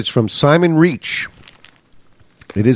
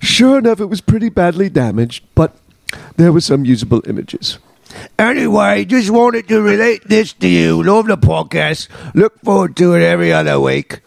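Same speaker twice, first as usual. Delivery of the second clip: lightly put-on British accent; mock English accent for letter reading; sounds like a famous singer. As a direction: finish the letter as a Brit. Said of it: "I get to sound like a famous singer again".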